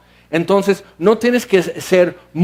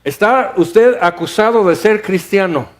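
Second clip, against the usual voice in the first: mock accuser. Preacher voices a courtroom accuser.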